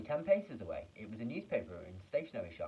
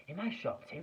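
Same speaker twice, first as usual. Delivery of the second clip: yelled; 8 semitones higher than usual. Acted. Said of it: "he yelled".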